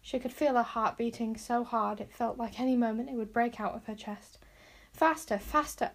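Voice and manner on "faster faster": high, slow, insistent; panicked urging. A narrator's reading. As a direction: urge the pony on breathlessly. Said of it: "urged Wish".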